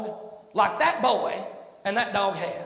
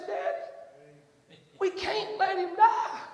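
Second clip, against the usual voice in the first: tearful plea; 8 semitones higher, much slower than usual. Retold or imitated. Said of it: "had big old tears pop up in his eyes".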